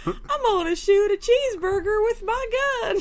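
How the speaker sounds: loud, hammed-up American voice, parodied by a foreigner; mock American accent. Imitating a Korean friend doing an American accent, hammed-up American accent. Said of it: "Korea to do her American accent".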